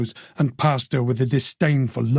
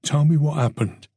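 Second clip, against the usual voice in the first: gentle. Acted. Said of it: "His voice was gentle, soothing".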